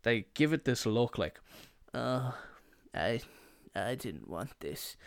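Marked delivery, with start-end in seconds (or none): 1.9-5.0 squeamish picky eater. Retold or imitated. Friend eyeing an unwanted burger, mock reluctant disgust.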